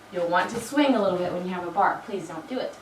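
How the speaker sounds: hoarse, husky voice; frog in throat. Real, not acted. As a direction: talk through a frog in the throat. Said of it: "I have a frog in my throat this morning and why I sound like I'm underwater".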